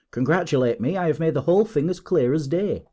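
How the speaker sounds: lively triumphant announcement; excited cry. A narrator's reading. Detective claiming success to his colleague, excited cry. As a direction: proclaim it with rising pitch. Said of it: "he cried, wringing Holmes's unresponsive hand".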